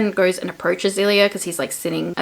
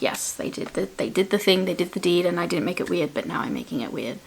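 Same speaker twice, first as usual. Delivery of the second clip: deadpan; 5 dB quieter than usual. Pretend. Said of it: "saying that without much emotion".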